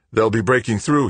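ragged breathing. A narrator's reading. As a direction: push it out between breaths. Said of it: "he said, breathing raggedly".

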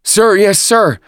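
high, loud recruit reply; varied enthusiasm. A narrator's reading. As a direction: answer the officer as a drilled squad. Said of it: "the recruits answered with varied enthusiasm".

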